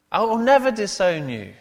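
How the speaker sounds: loud, high, emphatic vow; Peter. Acted. Peter coming back at Jesus, loudly emphatic. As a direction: swear it at full volume, driving through "never". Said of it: "Mark says, emphatically".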